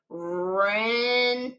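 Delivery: Rent-id broken in two with a clear id ending; teacher splitting the word to show the id ending; split into parts. Shown as a demonstration. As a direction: chop Rent-id apart, landing on id. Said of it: "read this E D as id".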